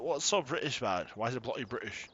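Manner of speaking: bad British accent. Joking about the British sugar factory in a bad British accent. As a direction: put on a poor mock British accent. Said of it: "It's a really bad accent".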